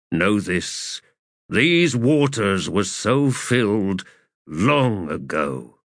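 slow, grave god voice; lightly voiced ancient god; solemn sea god. Mael speaks.

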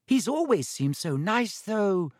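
unsure, searching for words; uncertain girl voice. A narrator's reading. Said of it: "said Hannah uncertainly".

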